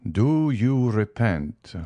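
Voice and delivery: slow, grave question; solemn voice. Acted. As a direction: ask it slowly, like a judge. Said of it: "asked a deep, solemn voice".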